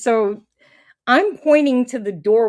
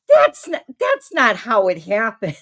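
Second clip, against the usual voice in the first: indignant protest; 4 dB louder than usual. Retold or imitated. Protesting to friend about note.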